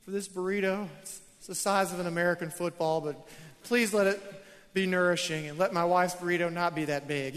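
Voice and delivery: mildly mock afterthought mealtime prayer; hesitant, halting pretend grace with pauses; awkward prayer. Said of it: "awkward prayers".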